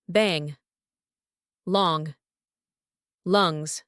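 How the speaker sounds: "Bang", "Long", "Lungs" with nasal ng; nasal ng ending. Shown as a demonstration. Teacher giving examples of the ng sound, nasal ng. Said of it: "we pronounce it in that nasal ning sound".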